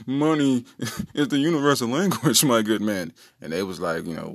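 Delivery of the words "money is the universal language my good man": lightly hammed-up posh brother, a little amused; hint of posh gentleman. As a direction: play your brother as a mock toff. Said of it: "brother number two said it with, like, such posh".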